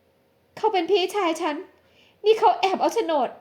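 pained exclamation. Acted. Woman learns her brother pawned the deed, stunned. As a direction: gasp out the brother's betrayal. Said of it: "หญิงสาวอุทานด้วยความเจ็บปวดเสียใจ".

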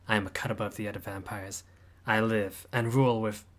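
pompous, theatrical vampire boast, loud opening; grand self-introduction. Acted. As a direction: announce yourself like royalty to a lowly human. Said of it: "Oh, you're gonna love this".

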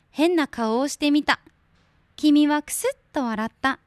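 put-on gentle storybook read for children; picture-book narration for listeners. Reads a picture book aloud on air.

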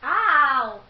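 loud pained yelp; brain freeze. Real, not acted. Brain freeze while chugging.

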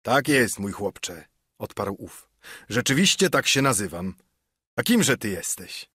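a lightly voiced hearty innkeeper; friendly old sailor greeting a lad; mild sea-cook bonhomie; jovial Silver.

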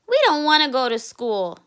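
a cub who won't go to school; whiny young raccoon. Acted. Cub complains to mother.

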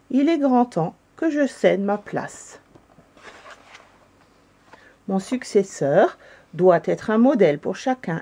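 lightly formal, ceremonial delivery; solemn address. A narrator's reading. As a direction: address the assembly with gravity. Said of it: "prit un air solennel et dit".

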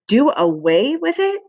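high, rising shocked question; mild shriek. A narrator's reading. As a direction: shriek it in disbelief, voice climbing. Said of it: "shrieked Fern".

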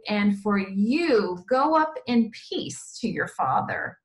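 slightly lifted, measured Bible reading; scripture read aloud. A narrator's reading. Teacher reading the Bible story to children, expressive scripture reading. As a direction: read it out with deliberate weight on the phrases.

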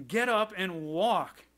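bold, slow acted command; Peter. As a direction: order it deliberately, word by word. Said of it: "Peter boldly looks at him".

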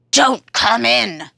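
monster voice. Acted. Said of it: "says the monster".

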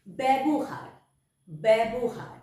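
ব্যবহার said as "bæbohar", with an open e; careful ব্যবহার starting with an open "bæ"; clear pronunciation demo. Shown as a demonstration. Teacher showing pupils how initial jofola sounds. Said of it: "বয় জফলা".

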